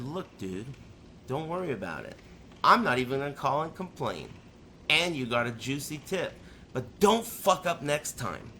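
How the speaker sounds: soft, low reassuring voice; low and soft, easing his panic; calm reassurance. Retold or imitated. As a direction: settle the nervous kid gently. Calming the panicking delivery kid.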